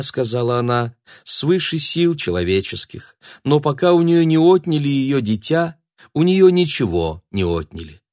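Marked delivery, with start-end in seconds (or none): 1.2-8.0 high, pained lament of a mother; tragic heroine sorrow. Acted. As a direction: play the martyred mother. Signora laments her fate.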